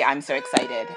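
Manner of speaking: soft, deflated catchphrase; mocking own catchphrase. Shown as a demonstration. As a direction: say your old catchphrase, dropped low. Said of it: "it is not gonna be".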